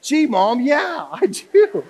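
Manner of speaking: put-on five-year-old reply. Five-year-old answers mom's spanking question, high slow kid voice. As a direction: answer sweetly like a naive kid. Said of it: "mom asks them this".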